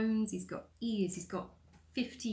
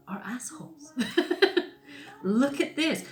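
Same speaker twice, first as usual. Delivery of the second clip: sarcastic; 4 semitones higher, 5 dB louder, slower than usual. Retold or imitated. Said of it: "as a piss take".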